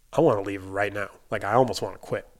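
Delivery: retold frustration, climbing to a heated finish; a little bit mad. Employee refused the weekend off, fired up and mad. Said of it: "a little bit mad".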